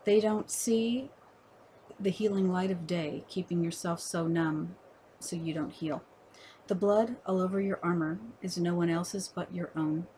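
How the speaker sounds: deliberate verse recital, lifting the opening of questions; poetry reading. Acted. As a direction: pose each line to the listener, pausing between phrases. Reads second poem aloud.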